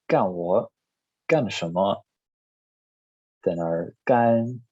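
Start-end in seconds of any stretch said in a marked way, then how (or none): 3.4-4.6 干 held level and high, slowly; first tone gan. Shown as a demonstration. Teacher models the first tone of 干 slowly. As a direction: keep 干 flat and high. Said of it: "first tone".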